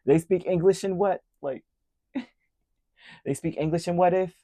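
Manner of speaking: high, loud altered movie voice; Samuel Jackson. Retold or imitated. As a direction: bark it like a movie gangster. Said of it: "Samuel Jackson in Pulp Fiction".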